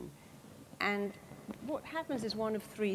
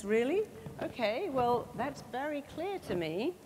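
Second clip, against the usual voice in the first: surprised brain; 5 semitones higher than usual. Retold or imitated. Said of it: "your brain goes".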